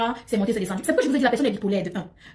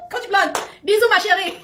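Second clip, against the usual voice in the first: slow, high, laughing kiss-off; giggly bisous, drawn out; laughing greeting; 8 semitones higher, 3 dB louder, slower than usual. Real, not acted. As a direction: blow her a kiss through laughter.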